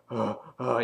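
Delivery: imitated panting; acted out-of-breath huffs; winded. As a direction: puff like you're winded from fighting. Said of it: "He's, like, kinda winded there".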